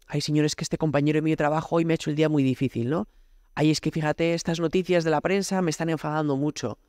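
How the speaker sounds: quick complaining "Ay, Señor"; mock complaining prayer. Parishioner griping at God, fast mock complaint. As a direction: rattle off grievances to God. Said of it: "solo te hablamos de lo que nos duele".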